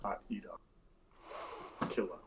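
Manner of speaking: low, soft, matter-of-fact answer; flat reply. Acted. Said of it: "Trex says".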